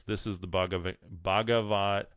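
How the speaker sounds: stumbling over Bhagavad in a Texas twang; west texas twang. Real, not acted. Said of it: "West Texas accent here".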